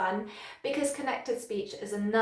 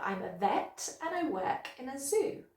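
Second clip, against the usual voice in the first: "vet", "work" and "zoo" made stronger, the small words light; meaning words "vet", "work", "zoo" stand out; natural sentence stress; 3 dB quieter than usual. Shown as a demonstration. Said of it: "we make those words sound stronger".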